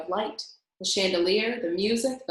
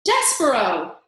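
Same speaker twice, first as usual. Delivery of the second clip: louder joyful call; shouted name; 3 semitones higher, 9 dB louder than usual. A narrator's reading. The princess calls to the mouse, loud. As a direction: shout his name to him. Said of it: "And then she shouted it".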